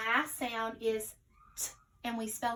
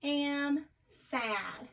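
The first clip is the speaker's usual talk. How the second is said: slow repeated sentence; 2 semitones higher, much slower than usual. Shown as a demonstration. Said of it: "we said".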